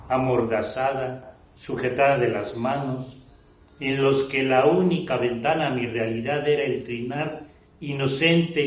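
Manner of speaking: measured declamation of a written testimony, phrase by phrase; solemn literary reading. Acted. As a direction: read it out like a prose poem, with deliberate pauses. Reads written testimony aloud. (lectura solemne y declamada de un testimonio)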